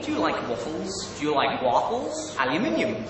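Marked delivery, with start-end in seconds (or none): 1.2-2.4 American "wahffles"; American accent. Shown as a demonstration. Brit trying chat's question, American accent. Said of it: "my best American accent".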